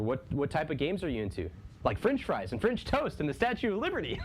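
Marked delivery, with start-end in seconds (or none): 1.8-4.3 laughing. Real, not acted. Laughing listing French gifts.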